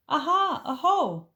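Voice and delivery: loud, high triumphant cry; gleeful aha; excited discovery. Acted. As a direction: pounce on the find. Child discovers trail.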